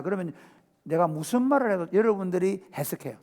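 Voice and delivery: ordinary talk, nothing marked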